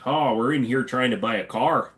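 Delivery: lightly voiced Midwestern car buyer; Midwestern customer. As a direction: imitate a Midwest customer's accent. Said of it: "deal with people like this".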